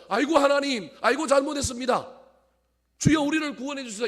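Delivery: high, loud cry for God's mercy; acted desperate plea. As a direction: cry out like a sinner begging to be saved. Acted plea of repentant people.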